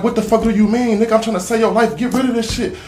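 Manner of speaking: high, loud outraged shout; retold yelling. Speaker yelling back at the gunman in the retold fight, loud outrage. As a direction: yell it back in disbelief, retelling.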